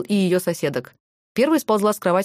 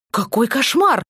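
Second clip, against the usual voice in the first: gasping in horror; 5 semitones higher, slower than usual. A narrator's reading. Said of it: "охнула Майя".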